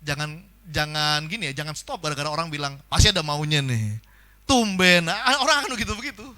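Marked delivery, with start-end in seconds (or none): 2.9-6.3 suspicious sceptic. Retold or imitated. Imitated sceptic reacting to sudden kindness.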